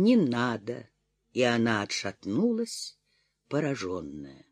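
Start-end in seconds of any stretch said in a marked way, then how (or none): 0.0-0.9 strained voice. A narrator's reading. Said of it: "сдавленным голосом".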